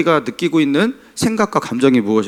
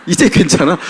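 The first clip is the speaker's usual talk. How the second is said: laughing; 4 semitones higher than usual. Retold or imitated. Retelling wife's sudden cheer.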